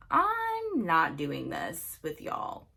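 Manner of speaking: slow refusal with a long-held first word; fed-up refusal. Retold or imitated. Telling the couple off on FaceTime, drawn-out and fed up. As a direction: stretch out the opening, putting your foot down.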